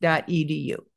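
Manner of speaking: slow, careful corrected web address; measured spelling-out for listeners to copy; reading slowly. Real, not acted. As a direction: dictate it slowly, letter by letter. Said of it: "I'll read this slowly".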